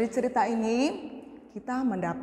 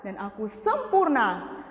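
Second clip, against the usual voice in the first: proud; 4 semitones lower than usual. Acted. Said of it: "Dia bangga".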